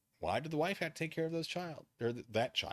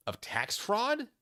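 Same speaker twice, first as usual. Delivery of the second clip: incredulous question; 10 semitones higher, much slower than usual. Real, not acted. Incredulous at the filing's claim.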